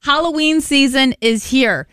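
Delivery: put-on old hag teasing a spooky secret; spooky witch voice. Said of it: "the spooky witch voice".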